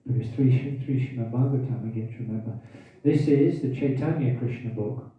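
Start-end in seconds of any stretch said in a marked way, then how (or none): 3.0-5.1 hiccuping mid-sentence; speaking through hiccups. Real, not acted. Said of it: "I've got hiccups now".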